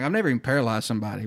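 rushed retelling, mildly panicked; retold freak-out. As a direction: blurt it quickly, a touch of alarm. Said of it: "Like, I'm freaking out".

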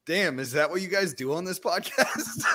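retelling through laughter; laughing quote. Retold or imitated. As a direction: quote him while laughing. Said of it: "he was like".

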